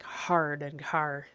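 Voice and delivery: "hard" drawn out with a strong R; really R up "hard", slowly; slow "hard" with a heavy Islander R. Shown as a demonstration. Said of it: "I really R it up".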